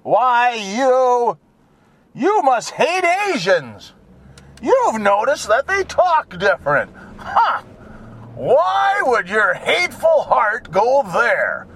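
mock offended accuser. Critic accusing driver of hating people, mock indignation. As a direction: play a scandalized critic, drawing out the words. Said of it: "without being called a name".

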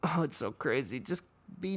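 whispered under the breath. Real, not acted. Muttering to the listeners, a whispered aside. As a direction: hiss it quietly, almost no voice.

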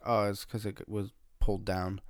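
imitating a mumbled excuse; half-mumbled retold excuse. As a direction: lightly mumble the words together. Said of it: "I said it in, like, a mumbled voice".

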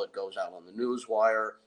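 ordinary talk

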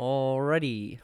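slow, stretched-out filler word; signature catchphrase. Retold or imitated. Co-host joining in on the old catchphrase, mock stalling. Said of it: "from the patented Sean Lamont".

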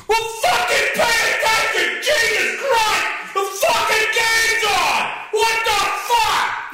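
ranting at wife over the game; furious rant. Retold or imitated. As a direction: scream it like a sore loser. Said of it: "retold rant at the wife".

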